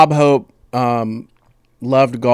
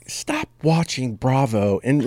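whispered aside; 2 semitones higher, slower than usual. Real, not acted. Teasing aside to co-host.

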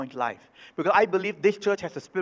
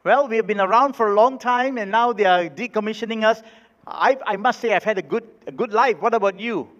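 one dollar bill voice; 4 semitones higher, 3 dB louder than usual. Acted. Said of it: "the one dollar said".

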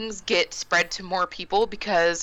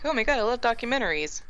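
quick, higher-pitched mock enthusiasm; mock gushing fan; 4 semitones higher, faster than usual. Saying she's not that girl, mock gushing fan. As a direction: lightly imitate an eager fan, rushing it.

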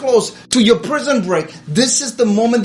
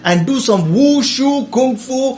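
mock furious; 3 semitones higher than usual. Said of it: "Naaman is now furious".

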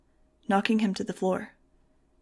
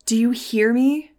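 loud, high, drawn-out demand; slow desperate shout, raised pitch; yelling; 4 semitones higher, 10 dB louder, slower than usual. A narrator's reading. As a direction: yell right into someone's ear. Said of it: "I was yelling right into it".

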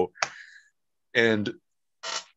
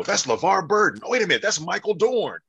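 surprised; 12 semitones higher, 4 dB louder, faster than usual. Retold or imitated. Retelling his own surprised guessing.

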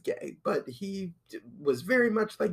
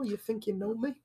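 Edge entrance line; 5 dB quieter, faster than usual. Retold or imitated. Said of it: "Edge, coming out".

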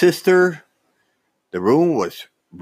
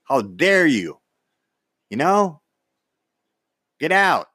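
retold fury; 4 semitones higher than usual. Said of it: "and I said".

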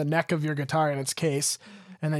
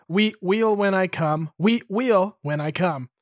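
dramatic reading. Acted. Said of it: "dramatic reading of the lyrics".

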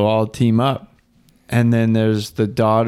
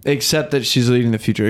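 hiccuping between words; with hiccups; faster than usual. Real, not acted. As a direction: talk through small hiccups. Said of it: "Excuse my hiccups".

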